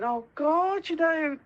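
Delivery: dog stuck under the wheelie bin, voiced through laughter; laughing dog voice. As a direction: voice the trapped dog while laughing. Voicing dog's thoughts, laughing.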